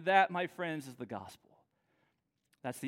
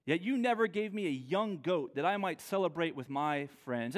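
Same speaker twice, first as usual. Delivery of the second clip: mock scolding from the older son, mild; berating son; 3 semitones higher than usual. Older son berating his father, a touch of mock anger. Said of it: "As he kind of berates his father".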